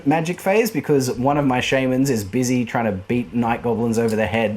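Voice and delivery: ordinary talk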